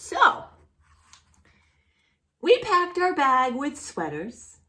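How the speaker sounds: gentle storybook reading voice; reading to children. A narrator's reading. Teacher reading a picture book to a small child, gentle storybook voice.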